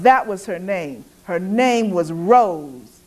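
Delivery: ordinary delivery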